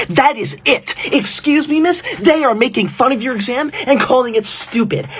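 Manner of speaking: fed up, calling out to the teacher; indignant tattling. Acted. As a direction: report a classmate in hammed-up outrage. Calling teacher to punish classmate.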